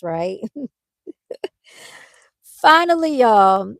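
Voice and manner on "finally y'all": high and loud, bursting with relief; a big relieved finally; excited exclamation. Real, not acted. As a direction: announce it like you finally made it. Excited arrival at the gas station.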